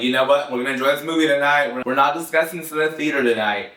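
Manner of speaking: fast, hurried mock resolve; mock theatergoer pact. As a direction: rush it like a whispered pact among the audience. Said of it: "We're like".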